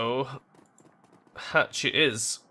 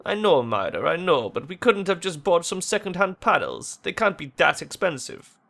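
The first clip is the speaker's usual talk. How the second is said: lightly acted, exasperated game dialogue; worried young friends arguing; 3 semitones higher, 3 dB louder than usual. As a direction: voice two friends in an anxious argument.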